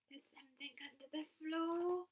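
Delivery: hushed, frightened whisper. Acted. Percy warns his guests in a frightened whisper. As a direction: breathe it out so nobody hears. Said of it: "whispered Percy".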